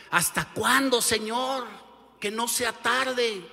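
pleading building to a high, loud cry; rising anguish, begging it to stop; desperate angels. Acted. Angels protest the crucifixion.

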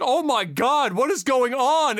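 high, drawn-out mock alarm; retold shock. Shopper watching mom and kid fight, acted bewilderment. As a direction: play the stunned bystander. Retelling shocked bystander reaction.

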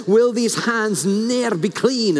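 light Scottish lilt, slowly drawn out; Scottish accent. Acted. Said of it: "in a Scottish accent".

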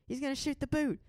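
high hyped announcement; imitating the singer. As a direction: hype the crowd like a front woman. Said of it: "she goes".

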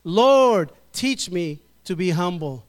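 "Lord" shouted loud, the rest spoken steadily; preacher practicing the call with the church; called-out response. Shown as a demonstration. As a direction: ring out "Lord" to lead the congregation. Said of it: "So let's practice".

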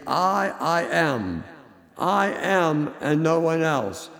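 "I" repeated and pressed hard; emphatic I. Shown as a demonstration. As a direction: insist on the "I". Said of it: "It is emphatic".

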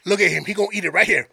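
lightly played Cajun guide; Sambo's Cajun accent. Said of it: "I'm gonna play this dude's accent".

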